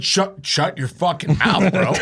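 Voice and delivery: mock irritated snapback; retold anger. Teller silencing Chase at the car, retold anger. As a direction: cut him off, mildly heated. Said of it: "I was so mad at him".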